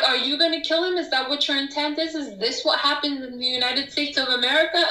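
indignant rapid questions. Retold or imitated. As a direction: pelt him with questions, incredulous. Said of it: "I'm like".

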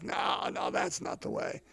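breathy whisper, brushing the idea off; whispered dismissal. Retold or imitated. Preacher voicing judges who reject John, in a dismissive whisper. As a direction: whisper it like a scornful onlooker. Mocking the judging crowd.

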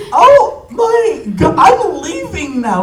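very high, slow, theatrical yell; mock outrage. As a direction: storm off in a stretched, hammed-up wail. Acted outburst after being teased.

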